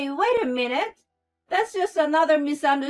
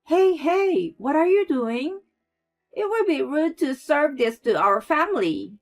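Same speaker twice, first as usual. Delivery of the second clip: loud, haughty reprimand; scolding mother-in-law; 6 semitones higher, 6 dB louder than usual. A narrator's reading. Mother-in-law scolds Claire over the food, loud and haughty. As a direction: put her in her place.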